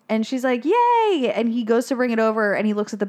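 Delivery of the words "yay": Darla. Retold or imitated. Voicing Darla getting present.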